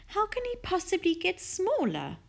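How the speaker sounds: high-pitched, incredulous lady; baffled question. A narrator's reading. Missus Silver questioning Mister Hoppy, baffled. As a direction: ask it in puzzled disbelief.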